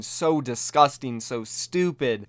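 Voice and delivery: slow, heavy disgust on each word. Real, not acted. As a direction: draw out the condemnation in disgust. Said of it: "I'm disgusted".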